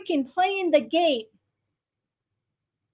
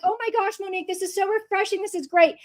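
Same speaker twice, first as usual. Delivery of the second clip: imitating a gushing fan, high and fast; hammed-up delighted commenter; mock gushing fan; 6 semitones higher than usual. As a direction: play up the gushing praise. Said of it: "people are excited".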